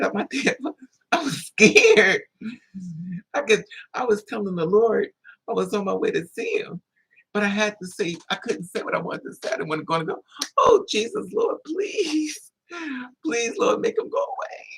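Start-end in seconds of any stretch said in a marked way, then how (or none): 1.1-2.2 loud, high and slow, dragging out scared; emphatic. Real, not acted. Admitting his fear to the audience, loud and slow. 10.6-14.7 much higher, crying plea to the Lord; mock panicked prayer. Praying to be spared the fight, high and tearful.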